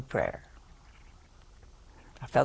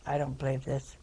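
1 muttered prayer; 6 dB quieter than usual. Retold or imitated. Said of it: "I said".

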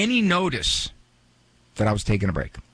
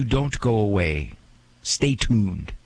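rote host catchphrase; 5 semitones lower, slower than usual. Retold or imitated. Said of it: "I'm just mouthing words".

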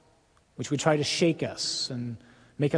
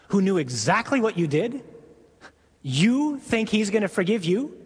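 accusing devil; 3 semitones higher than usual. Acted. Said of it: "he becomes the accuser".

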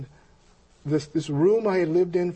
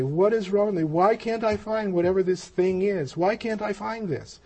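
higher-pitched, mild mock despair; retold anguished questioning; 5 semitones higher than usual. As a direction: plead with yourself in retold frustration. Retelling anguished questions to self.

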